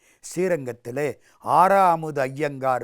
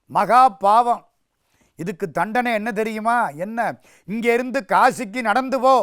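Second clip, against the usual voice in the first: louder, higher stern rebuke; stern elder brother; 5 semitones higher, 4 dB louder than usual. Acted. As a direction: pronounce the punishment sternly. Elder brother pronounces punishment. (அண்ணன் தம்பியைக் கண்டிப்புடன் தண்டிக்கிறார்)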